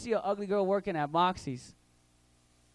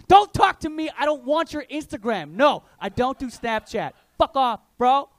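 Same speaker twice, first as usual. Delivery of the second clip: 1 rude snap; 5 semitones higher, 8 dB louder than usual. Acted. Pretty girl snapping rudely.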